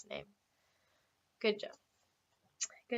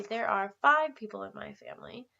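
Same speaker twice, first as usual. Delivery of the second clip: whispered example. Shown as a demonstration. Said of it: "So I would say".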